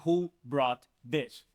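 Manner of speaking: very slow example question; slow model question. Shown as a demonstration. Teacher reads the new example slowly to students. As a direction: draw out each word for learners. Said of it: "We're saying".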